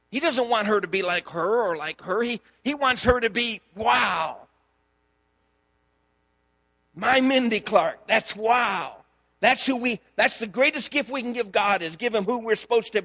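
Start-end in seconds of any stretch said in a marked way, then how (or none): 3.7-9.0 delighted wow. Pretend. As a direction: marvel at her like a proud father. God delighting in Mindy.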